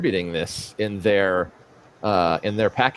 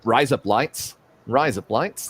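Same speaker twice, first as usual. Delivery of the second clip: Australian accent. Shown as a demonstration. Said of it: "how you say razor blades with a".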